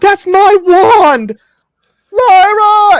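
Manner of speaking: very loud, very high, slow, shrill, drawn-out shriek. Voicing a mage in a tug of war during battle: screaming in character. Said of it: "He screams over the".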